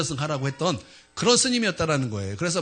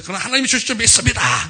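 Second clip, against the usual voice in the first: acted insistence, pitched higher; insistent declaration of faith; 6 semitones higher, 4 dB louder than usual. Student answers the pastor who cannot pay, insistent. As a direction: declare it stubbornly, voice rising.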